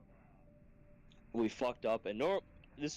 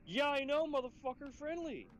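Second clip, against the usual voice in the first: retold exasperated reply. Instructor answering the trainee who nearly shot him, mock exasperated. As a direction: squeal back in hammed-up exasperation.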